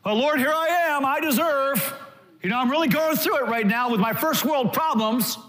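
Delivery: lightly mocking self-pitying believer; mock entitled prayer. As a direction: toss off a whiny prayer, half-joking. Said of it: "We don't come to God on the basis of our goodness".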